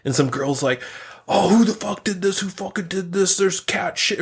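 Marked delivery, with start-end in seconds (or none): 1.3-4.2 mock outrage. Outraged beachgoer finding cat mess.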